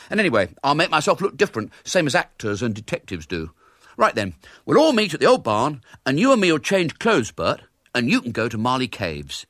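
high, fast schoolboy scheming; an excited boy laying out his plan; eager boy. A narrator's reading. William to his gang, excitedly plotting the disguise.

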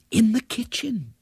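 small, high-pitched, frightened reply; terrified whisper. A narrator's reading. Frightened Ethel answers the strange old man, terrified. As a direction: answer timidly, overcome by terror. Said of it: "whispered Ethel, still overcome by terror".

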